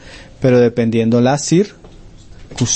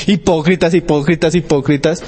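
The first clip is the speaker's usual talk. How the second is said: raised, higher rebuke to the Pharisees, repeated; preacher voicing Jesus rebuking the Pharisees, a raised mock roar; 4 semitones higher than usual. Preacher imitating Jesus calling out hypocrites, raised rebuke. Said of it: "A veces rugía".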